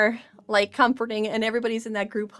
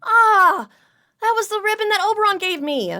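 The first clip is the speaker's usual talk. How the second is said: higher, louder upset NPC cry; a higher, louder dismayed outburst; angry; 10 semitones higher, 4 dB louder than usual. Acted. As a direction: demand why it happened, hurt and angry. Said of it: "he looks angry".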